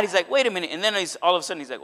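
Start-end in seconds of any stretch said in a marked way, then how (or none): 0.3-0.7 mild mock indignation, pitched higher; mad. David first reacting to what happened, mildly mad. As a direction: object sharply, imitating someone upset. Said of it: "at first he got mad".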